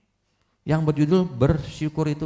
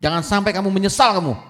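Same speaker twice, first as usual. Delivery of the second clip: louder scolding neighbor, fast in the middle; angry neighbor; 3 semitones higher, 3 dB louder, faster than usual. Acted. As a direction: warn the son sharply. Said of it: "Tetangganya marah". (tetangga memarahi anak dengan keras)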